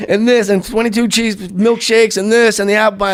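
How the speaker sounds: Farley ordering. Retold or imitated.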